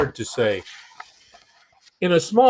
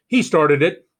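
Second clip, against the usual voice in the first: louder accusing cry; king crying out; 5 dB louder than usual. Acted. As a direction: point the blame and cry it out. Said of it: "he cried".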